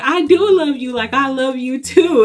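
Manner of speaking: high, loud gushing; playful overeager fan reply; eager reassurance. Retold or imitated. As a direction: rush to reassure him. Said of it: "I was like".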